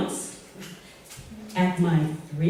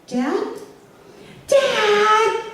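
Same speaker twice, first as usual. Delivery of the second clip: calling out to dad; 11 semitones higher than usual. Retold or imitated. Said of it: "I scream to the back".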